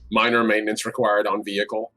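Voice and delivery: flat monotone machine voice; robot monotone voice. Pretend. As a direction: read it like a robot, toneless. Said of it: "as monotone a voice as he can".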